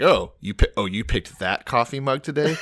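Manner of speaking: laughing through a mock villain line; mock Samson, laughing. Podcast host mocking Samson's revenge, laughing. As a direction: giggle through the absurd threat. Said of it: "it's like".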